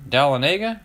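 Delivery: Dahlonega as DAL-uh-NAY-guh, rising; rhymed with Talladega. Shown as a demonstration. Host tries the city like Talladega, questioning pronunciation. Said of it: "Like Talladega?".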